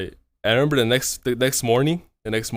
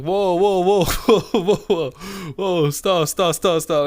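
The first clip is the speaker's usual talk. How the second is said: loud, higher panicked "whoa, stop"; alarmed; 8 semitones higher, 6 dB louder, slower than usual. Retold or imitated. Retelling how he shut down a drunk coworker's invite, alarmed shout. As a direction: slam the brakes on her, fast. Panicked refusal of late-night advance.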